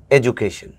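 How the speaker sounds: "এডুকেশন" as "e-ju-ka-shon" with the ju sound but no English stress; right sounds, wrong rhythm on "এডুকেশন"; ju sound, no tune. Shown as a demonstration. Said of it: "অ্যাকসেন্টটা ঠিক আছে, টোনটা ঠিক নেই".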